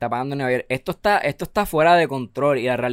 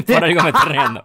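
laughing through the words; 2 semitones higher, 5 dB louder than usual. Real, not acted. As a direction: giggle while explaining. Se ríe del cuento repetido. (riendo mientras habla)

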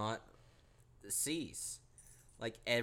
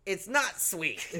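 startled realization; 9 dB louder than usual. Retold or imitated. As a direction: jump from touched to spooked. Realizing it's a ghost.

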